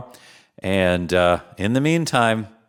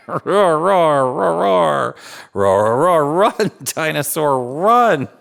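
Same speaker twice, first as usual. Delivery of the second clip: excited cheering; 4 semitones higher than usual. Acted. Urgent run to potty.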